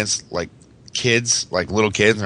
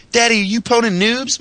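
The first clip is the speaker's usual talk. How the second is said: put-on high childlike voice, much higher; imitating his little son; 13 semitones higher than usual. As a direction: mimic a small kid asking eagerly. Dad retells his son's question.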